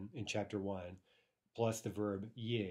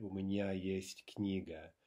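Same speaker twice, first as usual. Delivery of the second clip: slow model phrase; slower than usual. Shown as a demonstration. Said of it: "We say in Russian".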